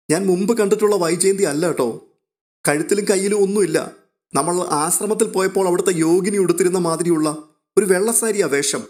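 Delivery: lightly voiced girl reporting news; excited young girl. Revathikutty describes the mother.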